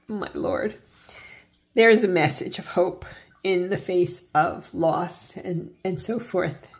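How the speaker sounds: choked up. Real, not acted. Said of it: "sorry, I'm tearing up".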